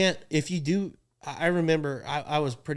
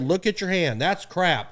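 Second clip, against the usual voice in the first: mock complainer; 5 semitones higher, 4 dB louder than usual. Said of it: "That clown just said".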